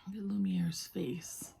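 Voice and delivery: soft admiring whisper. Real, not acted. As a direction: hush over the little face. Whispering over Lumiere.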